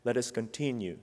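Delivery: soft, sincere preaching close; quiet sincere close. Real, not acted. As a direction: bring it down gently and sincerely. Softer closing.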